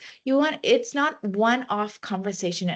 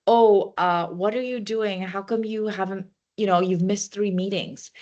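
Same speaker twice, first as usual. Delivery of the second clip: mildly accusing, sharp opening "Oh"; a light mock telling-off of a colleague; confrontational. Shown as a demonstration. Demo of confronting a colleague who missed meetings, mild accusing tone. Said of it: "rather than confrontation".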